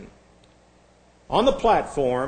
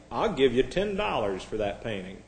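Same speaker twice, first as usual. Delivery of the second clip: softer, lower acted bid; very quiet; 4 semitones lower, 5 dB quieter than usual. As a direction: say it quietly and humbly. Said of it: "He said very, uh, quietly".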